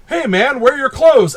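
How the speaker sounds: lightly voiced desk clerk calling out; front desk guy. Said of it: "the front desk guy goes".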